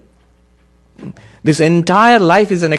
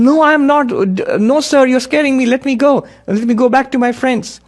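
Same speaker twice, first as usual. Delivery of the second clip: high, frightened bleat of a lamb; young lion bleating like a sheep; 9 semitones higher than usual. A narrator's reading. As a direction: plead in a high, scared bleating voice. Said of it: "And he was bleating".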